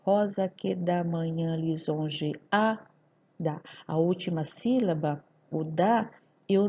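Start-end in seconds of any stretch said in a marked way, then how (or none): 0.0-2.8 slow syllable count of the verse, evenly spaced. Shown as a demonstration. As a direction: count out each syllable slowly. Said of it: "Contando todas essas sílabas". (contando as sílabas, bem pausado)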